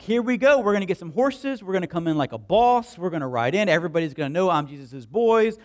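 lightly voiced eager disciples; a hint of bragging excitement; hyped disciples. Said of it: "they probably got hyped".

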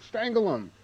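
Chucky pep talk. Retold or imitated. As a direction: cheer the strangling on as the evil doll. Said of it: "is giving the arms a pep talk".

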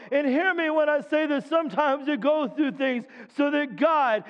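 preaching. Acted. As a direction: build it up for the congregation. Preacher exhorting congregation.

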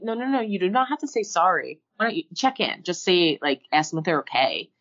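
gently steer the preschooler, brisk; coaching a kid. Retold or imitated. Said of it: "I'm like".

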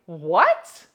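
loud, high shocked cry; loud appalled outcry; shocked outburst. Retold or imitated. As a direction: shout it in disbelief. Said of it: "You're like".

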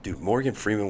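ordinary talk

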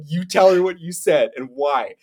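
stern order with a grin in it; dad ordering his kid to confess; giggling dad. Retold or imitated. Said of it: "he's like".

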